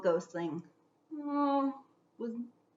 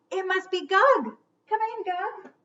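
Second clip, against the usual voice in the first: lightly voiced ghostling; 9 semitones higher, 4 dB louder than usual. Ghostlings greet Gug.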